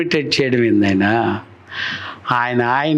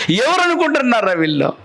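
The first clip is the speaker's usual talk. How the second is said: higher, mildly indignant challenge; angry Paul; 5 semitones higher than usual. Acted. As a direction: act out an irritated demand. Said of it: "అంత పెద్ద కోపం వచ్చింది". (కాస్త కోపంగా ప్రశ్నిస్తూ)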